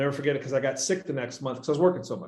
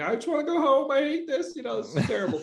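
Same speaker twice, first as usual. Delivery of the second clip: very high, weepy, tearful sobbing voice; 12 semitones higher than usual. Retelling a partner's complaint about a stressful job: imitating someone crying. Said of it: "crying to me".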